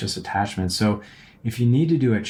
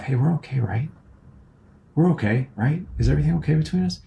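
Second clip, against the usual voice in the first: higher, rushing nervous plea; anxious needy tone; 5 semitones higher than usual. Retold or imitated. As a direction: beg your wife for reassurance, hurried. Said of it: "just that tone in my voice".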